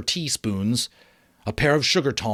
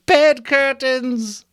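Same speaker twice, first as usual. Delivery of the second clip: louder, slow, higher laughing cry; 13 semitones higher, 6 dB louder, much slower than usual. Acted. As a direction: gleefully repeat his words, laughing. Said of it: "laughing and leaning forward".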